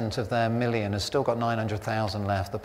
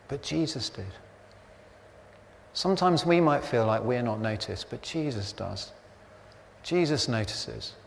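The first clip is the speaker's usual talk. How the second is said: soft reassurance; 3 dB quieter than usual. Real, not acted. Tender point about being noticed.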